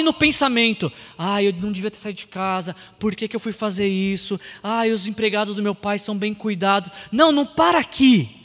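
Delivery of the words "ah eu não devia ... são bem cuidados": lower, softer inner lament; muttered self-reproach. Acted. Preacher voicing the prodigal son's inner regrets, muttered self-reproach. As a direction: think aloud, low and soft.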